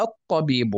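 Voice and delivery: الطبيب as "at-tabiibu", lam silent; doubled ta. Shown as a demonstration. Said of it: "فأصبحت الطاء مشددة".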